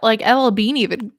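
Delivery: burp while talking; words interrupted by a burp. Real, not acted. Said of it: "excuse me, I'm burping 'cause I'm drinking".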